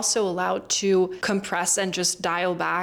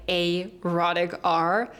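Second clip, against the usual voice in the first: slow careful correction; slower than usual. Shown as a demonstration.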